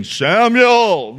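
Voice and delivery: a mild mock boom on "Samuel". Shown as a demonstration. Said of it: "He doesn't come booming".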